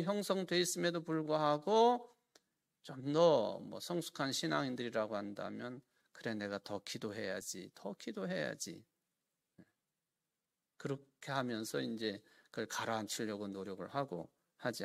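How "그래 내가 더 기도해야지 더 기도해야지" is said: soft self-talk, settling down; quiet resolve. Acted. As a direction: talk yourself into calm. Believer calming own anger. (분노를 가라앉히는 신앙인의 조용한 다짐)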